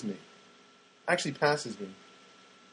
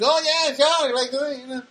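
higher, louder offhand oh yeah sure; a staffer agreeing without caring; mock careless reply; 11 semitones higher, 4 dB louder than usual. Staffer brushing off onion request.

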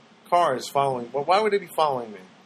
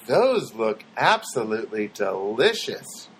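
weird stranger; 6 semitones lower, slower than usual. Retold or imitated. Strange man at the Hot Bar.

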